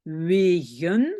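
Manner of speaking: "wegen" stretched over two clear syllables; lengthened word demo. Shown as a demonstration. Teacher lengthens the word for learners, careful demo. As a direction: draw out "wegen" so the G is heard. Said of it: "Je rallonge".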